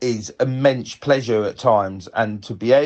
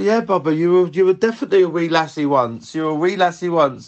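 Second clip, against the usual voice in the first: retold reassurance; 5 semitones higher than usual. Retold reassurance to confused mum.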